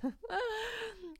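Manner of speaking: high, soft laugh; real laugh. Real, not acted. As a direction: break into a helpless high giggle. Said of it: "I'm laughing because you guys".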